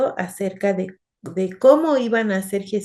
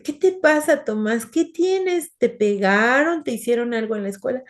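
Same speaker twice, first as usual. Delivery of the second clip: a hint of a fretting mother firing questions; worried mom; 3 semitones higher than usual. Mother asks her angry son Tomás what happened, lightly voiced and worried.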